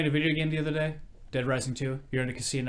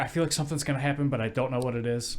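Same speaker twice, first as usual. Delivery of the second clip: retold panic; 3 semitones higher, 5 dB louder than usual. Retells waking up panicked to parents.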